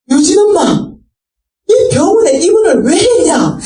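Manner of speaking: shocked to see her in hospital; startled call. Retold or imitated. Mother calls daughter at dawn. (놀라서 높고 크게 부르며)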